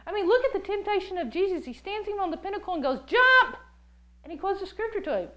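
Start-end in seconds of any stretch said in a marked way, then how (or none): 3.1-3.6 high, loud mock command; punchy acted yell; devil's urging shout. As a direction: shout it suddenly as a dare. Devil urging Jesus to leap.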